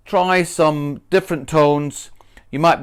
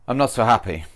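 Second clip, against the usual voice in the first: mildly unhappy; 3 semitones lower, faster than usual. Shown as a demonstration. Teacher shows the fitting unhappy tone. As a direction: let the words sound down. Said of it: "you want to be".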